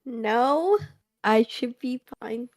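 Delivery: loud. Real, not acted. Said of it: "Are you extra loud than normal?".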